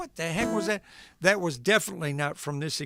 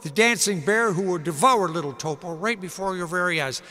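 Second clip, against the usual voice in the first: Ed Sullivan impression. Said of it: "not a very good impression of Ed Sullivan".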